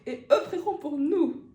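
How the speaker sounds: prêche solennel, un peu plus haut et fort; imitation du catéchiste. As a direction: imite le prêcheur bizarre. Imite Antoine au catéchisme. (imitation légère d'un catéchiste illuminé)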